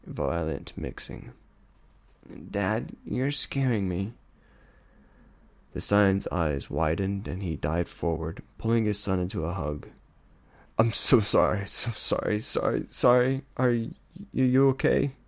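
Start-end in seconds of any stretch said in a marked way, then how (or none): 2.5-4.1 higher, slow scared plea; frightened plea. Acted. Colt frightened by his father's rant, slow scared plea. 10.8-15.1 higher, breaking repeated sorry; distraught apology. Acted. Father hugging his scared son, distraught apology.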